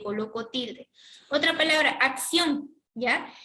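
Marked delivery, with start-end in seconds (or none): 1.9-2.7 acción stressed on the last syllable, ÓN; stress on final O. Shown as a demonstration. Teacher giving students another example word, acción stressed on the final O. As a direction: land firmly on the O of acción. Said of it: "está en la O, la mayor fuerza de voz".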